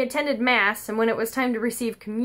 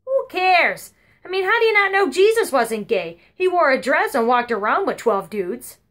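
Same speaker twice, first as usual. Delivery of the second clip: higher, louder offhand retort; blunt grandma; 4 semitones higher, 5 dB louder than usual. Retold or imitated. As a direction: brush it off as obvious.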